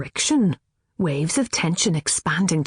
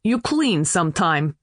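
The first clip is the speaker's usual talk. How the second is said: put-on broken English, Polish accent. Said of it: "Speaking English".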